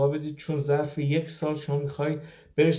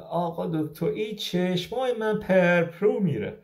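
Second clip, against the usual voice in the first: slow, higher-pitched Kermani dialect; Kermani accent; 4 semitones higher than usual. Retold or imitated. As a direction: imitate an elderly Kermani patient's local accent. (لهجهٔ کرمانی، به تقلید از پیرزن)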